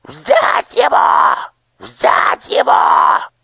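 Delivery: very high, loud, slow shriek; shrieking order. A narrator's reading. Nushrok shrieks at the guards. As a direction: shriek the order to seize him. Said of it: "завизжал Нушрок".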